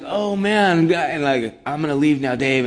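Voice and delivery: wanting to bolt from the room; alarmed teen. Retold or imitated. Telling Dave he is leaving, loud and alarmed. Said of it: "I'd just be like".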